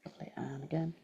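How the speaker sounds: unhurried guided meditation voice, long pauses. Acted. Teacher guiding a group through breath and body scan, guided meditation. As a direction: lead them gently through breath and body, leaving space.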